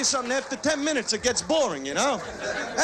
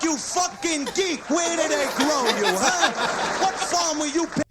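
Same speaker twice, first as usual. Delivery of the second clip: mock clerk insult; 4 semitones higher than usual. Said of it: "the convenience store accent".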